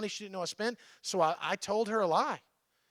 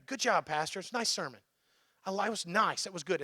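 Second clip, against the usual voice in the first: polite social praise. Retold or imitated. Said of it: "In a very".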